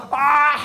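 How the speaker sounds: high-pitched retold yelp of pain; pained cry. Child getting alcohol rubbed on a raw wound, pained cry.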